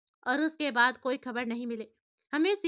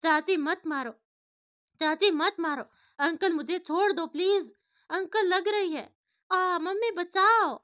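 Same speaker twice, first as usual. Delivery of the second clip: put-on terrified child crying out, louder and higher; screaming in her sleep; 4 semitones higher, 5 dB louder than usual. A narrator's reading. Girl screaming at her aunt and uncle in a nightmare, terrified. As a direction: plead in panic from a nightmare. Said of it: "नींद में जोर-जोर से चिल्ला रही थी".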